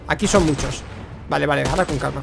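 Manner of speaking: usual speaking voice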